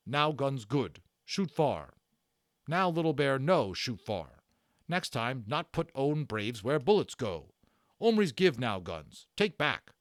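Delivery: a stern warrior demanding the guns back; broken-English warrior voice, forceful; Little Bear. Acted. Little Bear's voice in story.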